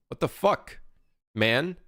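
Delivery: high, outraged what the fuck; indignant. Retold or imitated. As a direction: act offended, pitch jumping up. Retorting to teammates.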